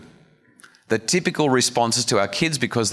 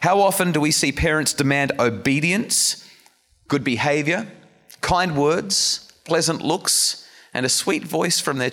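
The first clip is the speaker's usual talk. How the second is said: raised, emphatic scripture reading; earnest reading; 8 semitones higher, slower than usual. Acted. Preacher reading a passage to parents, emphatic. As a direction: read it with rising fervour. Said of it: "Let me read this to you".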